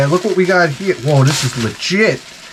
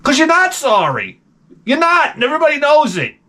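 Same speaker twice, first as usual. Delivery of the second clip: higher-pitched, insistent scolding; exasperated rant; 9 semitones higher than usual. Acted. Host telling pop stars they aren't sorry, exasperated. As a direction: call out the fake apology with high-pitched insistence.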